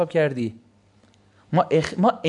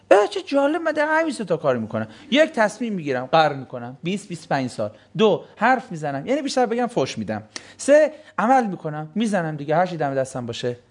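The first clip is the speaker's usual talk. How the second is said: mock hothead. Mimicking a hothead's ironic reply.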